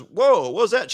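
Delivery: high, loud retold "whoa" of alarm; startled challenge. Host stepping in after a punch, imitated startled challenge.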